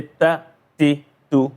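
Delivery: "ta, ti, tu" with short, undrawn vowels; short, undragged. Shown as a demonstration. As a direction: say "ta, ti, tu" short and crisp with no drag on the vowels. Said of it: "I don't drag. I don't prolong".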